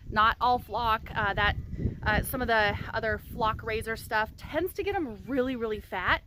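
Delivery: talking through a retainer; slightly lisped retainer speech; wearing a retainer. Real, not acted. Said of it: "I'm not gonna be wearing this retainer anymore".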